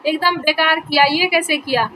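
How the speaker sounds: put-on mild demo of a teacher scolding a child; showing how not to talk to a child, lightly scolding; mock scolding. Shown as a demonstration. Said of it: "उसको direct से नहीं बोला जाता कि".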